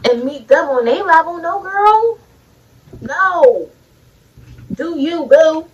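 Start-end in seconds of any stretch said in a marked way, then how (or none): 1.4-5.7 sassy encouragement. Real, not acted. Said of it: "encouraging women viewers".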